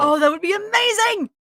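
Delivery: high, loud burst of delight; excited. Real, not acted. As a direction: exclaim it, thrilled by the idea. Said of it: "I'd be excited".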